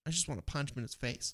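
muttered whisper under the breath. Real, not acted. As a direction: hush it like a secret threat. Venting about annoying customer.

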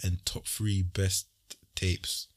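slow, drawn-out crooner voice. Pretend. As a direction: croon it slowly like an R&B singer. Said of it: "That's his R&B voice too".

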